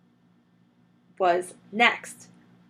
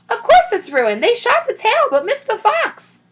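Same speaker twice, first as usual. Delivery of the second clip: scornful call; 14 semitones higher, 8 dB louder than usual. A narrator's reading. Mrs Bean scolding from upstairs.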